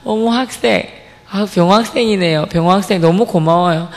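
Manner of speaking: a lightly voiced kind teacher offering a snack; gentle teacher voice. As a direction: praise the student gently. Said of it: "정말 온화하게 미소 지으시면서".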